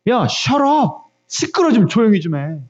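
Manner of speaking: imitated annoyed crowd; irritated telling-off, acted lightly; mock scolding. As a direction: shush him crossly, opening high and drawn out. Crowd scolds the shouting beggar.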